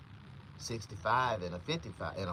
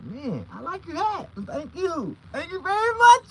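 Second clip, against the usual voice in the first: high, slow put-on voice, louder at the end; mock cop voice; 8 dB louder than usual. Cop thanking him, in a high put-on voice. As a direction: camp it up as the cop. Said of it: "He's like".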